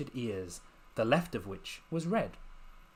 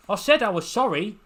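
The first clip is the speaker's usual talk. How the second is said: loud and much higher, a pleading call; 8 semitones higher, 8 dB louder than usual. Acted. Lucy calling down her apology to Bill. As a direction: shout it down to him.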